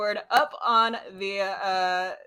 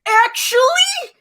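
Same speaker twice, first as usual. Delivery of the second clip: very high, slow, know-it-all "actually"; nerdy um actually; 11 dB louder, much slower than usual. Shown as a demonstration. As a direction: whine it like a smug know-it-all. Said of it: "you have to buzz in by saying".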